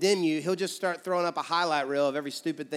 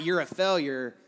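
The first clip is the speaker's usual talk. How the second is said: condemning voice. Shown as a demonstration. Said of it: "You see the difference?".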